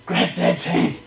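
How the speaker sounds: whispered, low and breathy urging; quiet whispered coaxing; hushed urging. Retold or imitated. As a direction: whisper it close to his ear. Friend urging him.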